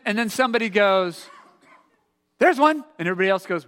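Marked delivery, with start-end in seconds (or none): 2.4-2.8 high, loud spotting cry; acted burst of excitement; excited call-out. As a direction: call it out to the others. Acts out someone spotting a meteor.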